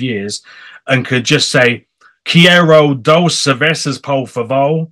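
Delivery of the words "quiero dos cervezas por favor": put-on slow, clumsy Spanish with an American accent; mock a lazy expat ordering beer. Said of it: "was an American Spanish accent?".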